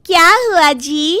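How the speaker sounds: a light village wife asking; innocent wife. Acted. Wife answers husband. (भोली पत्नी का धीमा सवाल)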